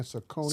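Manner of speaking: "Saucony" as suh-KOH-nee; common mispronunciation. Retold or imitated. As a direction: quote the wrong "Saucony", stressed on KOH. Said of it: "They've been saying Saucony".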